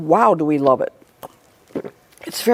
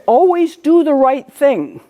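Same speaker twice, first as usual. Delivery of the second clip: brother's advice; 8 semitones higher, 3 dB louder than usual. Retold or imitated. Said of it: "my brother would always say".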